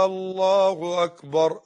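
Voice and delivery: «الله أكبر» with the opening hamza stretched into a long questioning «آ»; wrong takbeer. Shown as a demonstration. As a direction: drag out the first vowel of «الله», slowly. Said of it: "طب بعض الناس يقول لك إيه؟ ... غلط". (مدّ همزة «الله» في أولها كالاستفهام خطأً)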